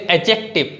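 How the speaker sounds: "adjective" said a-jective, with no D; silent D. Shown as a demonstration. Teacher models the silent D rule, "adjective" as a-jective. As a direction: skip the D in "adjective". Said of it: "you need not to pronunciate this D".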